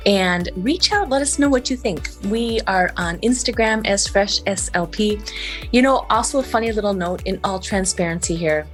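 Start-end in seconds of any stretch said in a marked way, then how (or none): 2.2-8.7 lateral lisp. Real, not acted. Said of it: "So if you hear lateral lisp".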